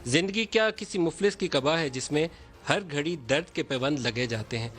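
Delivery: reciting Faiz verse with measured poetic phrasing; poem recitation. Acted. News host recites a Faiz poem for both leaders, poetic recitation. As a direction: recite the couplets line by line, like a poem. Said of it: "اس کا ایک آدھ مصرع پڑھوں گا".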